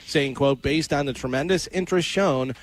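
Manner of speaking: measured radio news delivery; news read. Real, not acted. Newsman reads host today's top story, news read.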